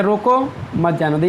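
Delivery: "रोको", a short break, then "मत जाने दो"; pause after रोको. Shown as a demonstration. Teacher reading out a police officer's order, pause after "रोको". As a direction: stop briefly after "रोको" before saying "मत जाने दो". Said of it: "थोड़ा रुक के".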